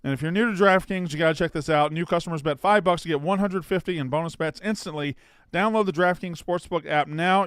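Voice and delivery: energetic promo read. Acted. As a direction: sell it like a live podcast ad. Back to sponsor ad copy.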